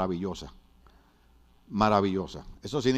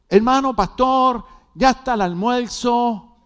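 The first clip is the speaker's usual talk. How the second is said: higher, slow singsong Mexican lilt; singsong Mexican accent; 9 semitones higher, 6 dB louder, slower than usual. Retold or imitated. Host sister calling the pastor to breakfast, singsong Mexican accent. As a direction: sing it out like a Mexican hostess. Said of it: "hablaban cantadito".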